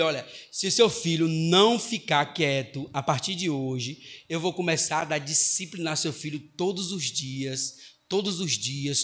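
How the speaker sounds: retold teacher's measured ultimatum; firm warning.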